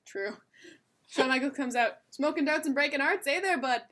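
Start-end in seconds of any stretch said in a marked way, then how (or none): 2.1-3.8 louder, higher Canadian caricature; playful mock Canadian; hammed-up Canadian accent. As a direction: lay on the Canadian slang accent, amused. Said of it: "She probably has a Canadian setting".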